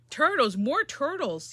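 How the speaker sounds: loud, slow bellow. Acted. King calling the turtles, slow bellow. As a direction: bellow the order. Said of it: "he bellowed and be- brayed".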